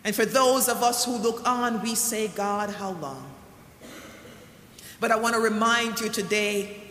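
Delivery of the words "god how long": hushed slow plea. Acted.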